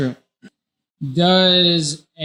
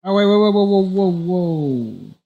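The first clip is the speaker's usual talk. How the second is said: surprised; 4 semitones higher than usual. Real, not acted. Player stops turn in alarm.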